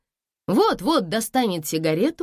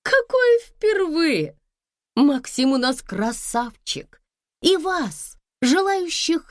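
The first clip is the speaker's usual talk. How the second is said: high, scornful and theatrical; mocking wife; 7 semitones higher than usual. A narrator's reading. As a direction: sneer at her husband's conquests. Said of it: "небрежно махнула рукой". (насмешливо, свысока, высоким голосом)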